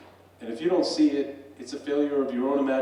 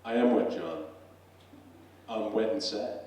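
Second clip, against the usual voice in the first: lightly voiced glum professor; a hint of a downcast professor; 3 semitones lower than usual. Wet professor answering John the barman, lightly acted glum professor voice. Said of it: "This accent here is my professor voice".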